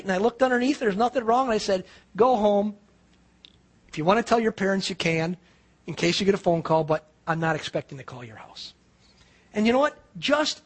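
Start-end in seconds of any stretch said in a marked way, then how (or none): 2.1-8.7 gentle. Retold or imitated. Gentle dismissal of the girl.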